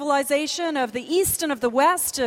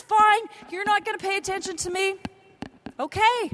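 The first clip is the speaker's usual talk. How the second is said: mock offended God; 4 semitones higher than usual.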